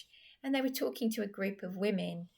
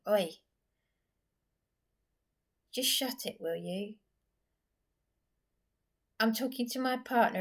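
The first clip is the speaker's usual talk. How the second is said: imitating an angry "Oi, just shut it"; a mild mock telling-off, getting louder; telling them off; 3 semitones higher, 3 dB louder than usual. Vlogger imagines snapping at the mocking men, building anger. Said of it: "stop myself from going up to them and saying".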